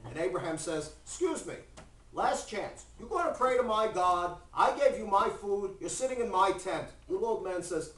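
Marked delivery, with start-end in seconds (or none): 1.0-6.9 indignant host, lightly hammed up; acted ultimatum, pitched up and pressing; mock indignant warning. Abraham warning the guest in his tent, mock indignant.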